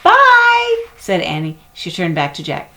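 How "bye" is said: put-on high, bright little-girl goodbye; Annie's voice. A narrator's reading. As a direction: call it out as the young sister.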